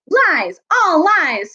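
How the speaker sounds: high, indignant interruption; angry denial. Acted. Badger interrupts the dwarf's grievance, angrily. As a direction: cut in and throw out the accusation.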